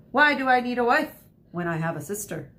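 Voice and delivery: big booming question. Acted. Uncle teasing his sister, booming voice. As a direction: boom it out like a jolly uncle. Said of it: "he asked in a booming voice".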